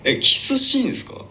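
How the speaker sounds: startled, high-pitched question; 驚いて聞き返す. Real, not acted. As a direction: voice jumps up in disbelief. キスシーンの告白に驚いて聞き返す. (驚いて声を裏返し気味に聞き返す)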